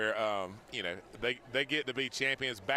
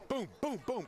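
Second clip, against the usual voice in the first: high, punchy repeated booms; excited boom; 8 semitones higher than usual. Retold or imitated. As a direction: fire off each boom. Mimicking repeated scores.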